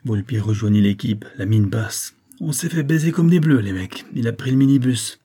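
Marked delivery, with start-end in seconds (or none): 2.4-5.2 angry frustration. Acted. Volpi tells team they failed.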